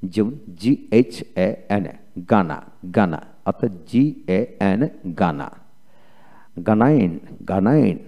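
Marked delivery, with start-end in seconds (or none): 2.3-3.2 গানা with a plain hard g, no h; silent H. Shown as a demonstration. Teacher showing learners the silent H, careful pronunciation of গানা. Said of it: "একসাথে থাকলে এইচ এর উচ্চারণ হয়". 6.7-8.0 গানাইন opening on a plain hard g; silent H. Shown as a demonstration. Teacher showing that H is not sounded, careful গানাইন with plain g. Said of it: "এখানে এইচ উচ্চারণ হলো না".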